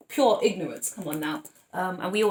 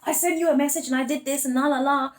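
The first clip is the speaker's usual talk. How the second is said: emotional whining; 6 semitones higher, 4 dB louder than usual. Retold or imitated. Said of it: "they get really emotional".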